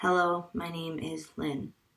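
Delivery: dull, lifeless, flat, bored monotone. Showing a boring self-introduction in a lesson, in a flat, bored tone. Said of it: "Boring. Don't do that".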